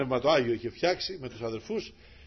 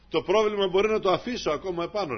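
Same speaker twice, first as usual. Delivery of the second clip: voice of the Lord; 6 semitones higher, 6 dB louder than usual. Acted. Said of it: "λέει ο Κύριος".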